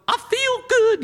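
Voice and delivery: high, loud burst of feeling good; excited declaration. Retold or imitated. Preacher voicing a revived believer, high excited cry. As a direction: belt it out like a sudden rush of joy. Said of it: "someone's gotta step up and go".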